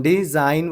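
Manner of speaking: डिज़ाइन with no G before the N; silent G. Shown as a demonstration. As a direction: sound out डिज़ाइन, leaving G silent. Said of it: "जी silent हो जा रहा".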